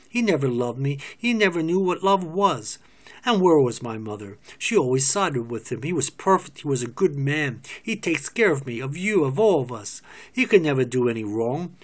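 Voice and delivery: loud, bitter tirade against her parents. Acted. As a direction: let the anger pour out.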